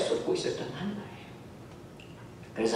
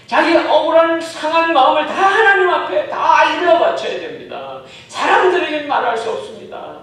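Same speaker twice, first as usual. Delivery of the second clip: loud, high, fervent sermon voice; full-force preaching; 12 semitones higher, 14 dB louder than usual. Acted. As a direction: urge them to bring everything to God. Fervent sermon on Hannah's prayer. (열정적으로 외치는 설교)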